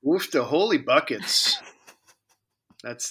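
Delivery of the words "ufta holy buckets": exaggerated Midwestern accent; Midwestern impression. Shown as a demonstration. Co-host role-plays reacting to a rain forecast, in Midwestern impression. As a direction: react like a mock-dismayed Midwesterner. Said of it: "that's my Midwestern impression".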